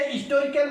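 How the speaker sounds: हिस्टोरिकल with H dropped, "istorikal"; silent H. Shown as a demonstration. Teacher recaps old speech, हिस्टोरिकल said without H. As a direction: start हिस्टोरिकल on the I vowel. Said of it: "हिस्टोरिकल बोलते थे".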